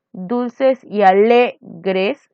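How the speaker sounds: dulces y alegres drawn out very slowly; stressed syllable. Shown as a demonstration. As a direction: stretch it, mark the fourth syllable. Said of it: "ahí está en la cuarta". (muy lento, marcando la sílaba acentuada)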